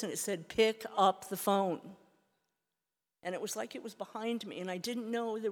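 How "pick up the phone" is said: slow, deliberate command from nowhere; mysterious voice. Retold or imitated. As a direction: lay out each word like an unseen voice. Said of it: "I heard a voice".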